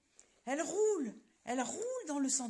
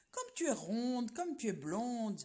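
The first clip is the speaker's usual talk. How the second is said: sly flattery. Acted. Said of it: "dit le malin renard".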